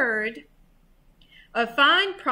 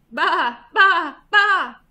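loud, higher repeated bleats; hen baaing; 5 semitones higher, 9 dB louder, slower than usual. A narrator's reading. Hen tricks the thieves, loud baas. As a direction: bleat three times like a sheep. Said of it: "said the fat red hen".

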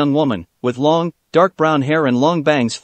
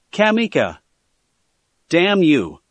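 surprised cry out; 2 semitones higher, slower than usual. A narrator's reading. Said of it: "cried out in surprise".

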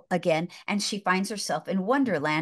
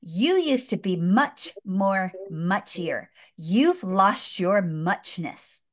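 tender slow hatter; much slower than usual. Retold or imitated. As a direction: mourn it slowly.

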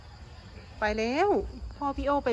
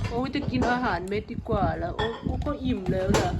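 lightly put-on pet voice, a touch lower; voicing the dog; 4 semitones lower than usual. Owner speaking for her dog, lightly voiced pet.

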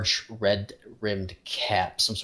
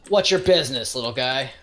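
a light sneer, higher and louder; piping up; 3 semitones higher, 4 dB louder than usual. Acted. Desmond sizing up the small stranger, mildly mocking. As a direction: challenge the stranger with a touch of scorn. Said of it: "Desmond pipes up and says".

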